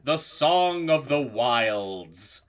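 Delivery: big, bright announcer welcome; show host intro. Acted. Host opens the session.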